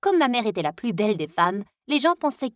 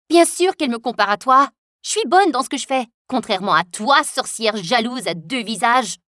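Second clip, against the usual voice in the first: louder, cutting comeback; angry retort; 4 dB louder than usual. Acted. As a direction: fire back at the rival. Heroine retorts angrily.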